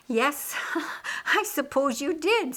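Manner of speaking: amused reply with a laugh in it. Acted. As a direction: laugh as you concede the point. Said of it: "said Martha, laughing".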